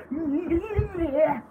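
quick squeaky noise of fast playback; imitated sped-up squeak. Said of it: "it was a sped up version".

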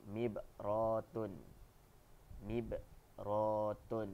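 mibratun drawn out very slowly; slow model word. Shown as a demonstration. Teacher models new Arabic vocabulary very slowly. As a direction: stretch each syllable for the class.

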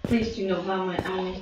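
stiff fake voice; put-on plastic voice. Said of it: "Should I just put on a fake voice".

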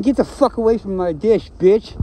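gruff threatening dog voice; tough dog. Retold or imitated. The dog warning another off its dish, threatening. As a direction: growl it like a territorial dog. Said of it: "They're saying".

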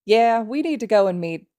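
chirpy adult rushing to leave. Acted. Mike cheerfully interrupted.

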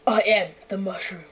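mildly put-on strong voice; a hint of a movie hero; big strong voice. Told to use a big strong voice, mildly strong delivery. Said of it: "strong voice".

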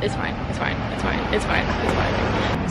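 softly repeating it's fine; quiet resigned mantra. Real, not acted. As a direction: talk yourself down under your breath. Repeated self-soothing mantra.

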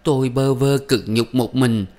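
keen to the dead husband; wailing lament. A narrator's reading. Old widow wailing to her dead husband, sobbing loudly. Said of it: "nức nở gào".

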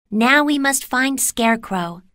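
put-on high girl's voice; young Dorothy. A narrator's reading. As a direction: urge them on as Dorothy, high. Dorothy leads the search.

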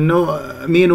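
نؤمن with the glottal stop slack and barely closed; weak hamza. Shown as a demonstration. Teacher shows a wrong way, weak hamza. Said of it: "هكذا ضعيفة".

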